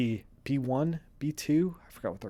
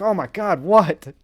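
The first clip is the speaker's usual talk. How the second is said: mimicking partner; 5 semitones higher, 9 dB louder than usual. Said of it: "calm down".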